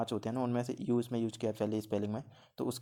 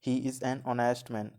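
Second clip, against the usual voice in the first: slow example reading; much slower than usual. Shown as a demonstration. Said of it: "next है".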